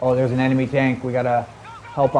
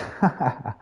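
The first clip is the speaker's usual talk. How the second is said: short laugh; 4 dB quieter than usual. Real, not acted. Amused while streaming.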